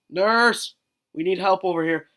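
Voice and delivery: mock cry for help in a dining hall; calling out for the nurse. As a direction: shout for the nurse to come help.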